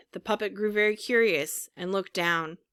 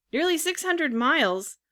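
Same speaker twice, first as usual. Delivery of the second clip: much higher incredulous repeat; astonished echo; 8 semitones higher than usual. A narrator's reading. Puppet hearing how far the seacoast is, astonished echo. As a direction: echo it back in disbelief, pitch leaping. Puppet echoes the answer in dismay.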